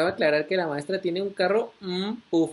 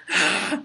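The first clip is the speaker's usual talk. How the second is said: mock horrible scream. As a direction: imitate someone screaming in your face, held back. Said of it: "me grita súper horrible".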